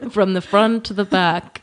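slow, solemn mock-majestic father; Lion King dad voice. Joking about a dad on the ceiling, slow mock-solemn voice. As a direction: intone it slowly like a ghostly king. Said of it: "your dad's on the ceiling".

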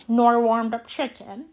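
badly faked Australian accent. Shown as a demonstration. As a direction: try a clumsy Australian "nor warmed up chicken". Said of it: "my God, that was Australian".

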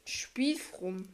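whispered. Real, not acted. Echoing the name.

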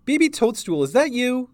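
high, loud questioning call. A narrator's reading. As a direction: call into the orchard for a lost child. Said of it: "she called".

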